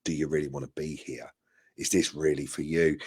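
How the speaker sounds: softly checking in on a struggling employee; gentle concerned boss. Retold or imitated. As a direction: ask it gently, like a boss who cares. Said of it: "he's almost saying, like".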